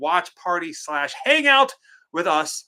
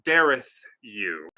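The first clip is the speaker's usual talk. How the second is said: mock indignation; 3 semitones lower, much slower than usual. I'm just kidding.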